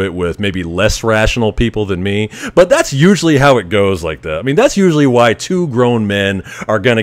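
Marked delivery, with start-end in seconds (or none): none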